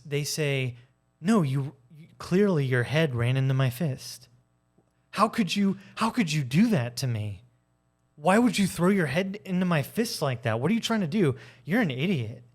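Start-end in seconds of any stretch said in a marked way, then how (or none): 1.2-12.4 raised, offended protest of innocence; indignant gaslighter. Retold or imitated. Gaslighter turns the blame on the victim, indignant and raised.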